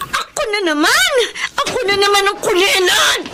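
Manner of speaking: high, choked jealous complaint on the verge of tears; tearful outburst. Acted. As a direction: break down, bitter that you're left out again. Connie breaks down, jealous. (naiiyak na hinanakit ng anak na naiinggit)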